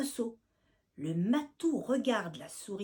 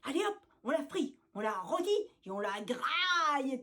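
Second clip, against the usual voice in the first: mock cry; 3 semitones higher than usual. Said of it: "crie le chat noireau".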